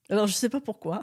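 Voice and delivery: a laugh in the voice; amused, half laughing; laughing at her own habit. Real, not acted.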